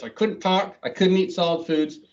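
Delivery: words pushed through clenched teeth, jaw barely moving; talking with jaw wired. Shown as a demonstration. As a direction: speak as if your jaw is wired shut. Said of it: "I was talking like, like this".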